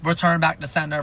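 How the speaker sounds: mock-shout the demand like an angry toddler; mild mock yell. Toddler yelling at parents about the twins, mild mock yell. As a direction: Return punched in a mild retold yell. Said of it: "yelling, like".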